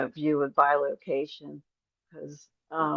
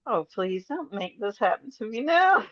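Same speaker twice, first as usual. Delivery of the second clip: laughing plea; 5 semitones higher than usual. Retold or imitated. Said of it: "and I'm like".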